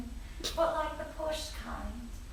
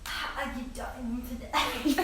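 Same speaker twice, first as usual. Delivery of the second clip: French. Pretend. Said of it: "I'm trying to do the French".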